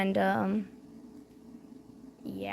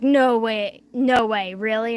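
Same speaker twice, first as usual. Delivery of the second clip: louder, surprised "no way" from the bartender; excited disbelief; 5 dB louder, slower than usual. Retold or imitated. Bartender hearing about spare pizza, excited disbelief. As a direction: play the bartender thrilled about free pizza. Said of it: "And she was like".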